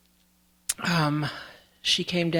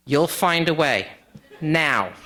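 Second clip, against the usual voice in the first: firm grandma order; 4 dB louder than usual. Retold or imitated. Grandma ordering grandson to fetch water.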